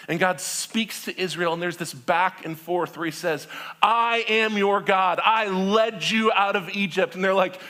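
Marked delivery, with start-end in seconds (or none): 3.8-7.1 voice of God. Acted. God voiced in retold story.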